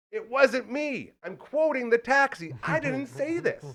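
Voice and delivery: imitating a comic loudly disowning his joke; high-pitched protest. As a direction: protest innocence in a high, stretched voice. Comedian's protesting disclaimer, acted.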